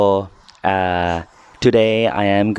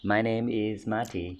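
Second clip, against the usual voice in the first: slow model line; 7 dB quieter, slower than usual. Shown as a demonstration. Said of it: "say after me".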